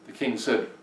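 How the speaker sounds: ordinary delivery, nothing marked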